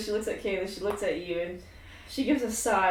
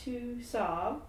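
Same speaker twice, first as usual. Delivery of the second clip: soft comforting; 7 dB quieter than usual. Acted. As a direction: hush her tears gently. Shar comforts crying Elektra.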